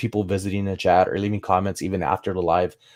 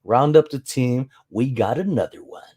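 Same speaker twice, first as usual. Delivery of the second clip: lightly imitating the alert; 4 semitones higher than usual. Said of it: "It says".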